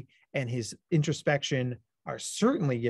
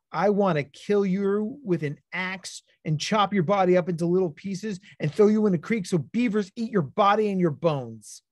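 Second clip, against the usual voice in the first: lightly voiced angry six-year-old, a bit louder; angry kid quote; 4 semitones higher, 3 dB louder than usual. A hint of the upset boy threatening Doctor Matt. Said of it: "looked me dead in the eye and said".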